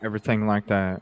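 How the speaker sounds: fast, throwaway parroting of the sheriff's phrase; mocking the sheriff. Mocking the sheriff's filler phrase, rattled off fast. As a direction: rattle it off like a tired catchphrase.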